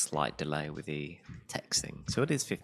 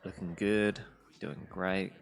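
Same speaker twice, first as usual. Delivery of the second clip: sarcastic; slower than usual. Acted. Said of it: "the most sarcastic".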